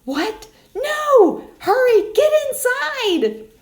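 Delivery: high, loud, rushed alarm; panicked pigs. Acted. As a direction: urge your brother inside in a panic. Pigs panic about wolf.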